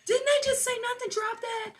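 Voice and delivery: mock exasperation. Acting out someone who just dropped something fragile, mock exasperation. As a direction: squeal it in hammed-up frustration. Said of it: "You're like".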